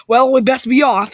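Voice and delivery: Duke Nukem voice. Acted. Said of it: "do a Duke Nukem voice for Krog".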